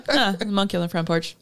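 quick, soft, unbothered; deadpan imitation of the victim; deadpan mock. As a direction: say it like a monkey is no big deal. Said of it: "You're like".

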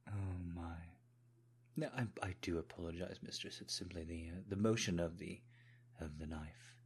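put-on hesitant apology in a British accent; British servant excusing a ticklish laugh. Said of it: "put on a British accent".

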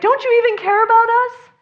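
high, loud frantic cry; panicked plea. Retold or imitated. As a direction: plead like panicking disciples. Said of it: "they're like".

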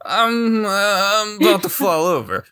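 put-on slurred drunk character; sway and slur like a drunk. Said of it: "I'm very drunk right now".

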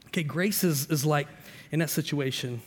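usual speaking voice

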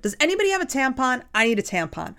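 open, unashamed ask, not whispered; a girl openly asking classmates for a tampon; said out loud. Shown as a demonstration. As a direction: say it plainly for the whole room. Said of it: "Yes, say it loudly".

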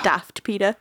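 whispered aside. Real, not acted. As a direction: breathe it under your breath. Aside muttered under breath.

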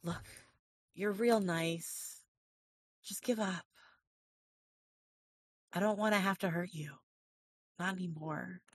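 a weary French villain asking for the win; French accent villain. Acted. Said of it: "actually do this in character".

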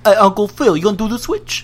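put-on terrible British accent. Fresh Prince line to Uncle Phil, terrible British accent. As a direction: ask it in a hammy, poor British voice. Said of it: "That was a terrible British accent".

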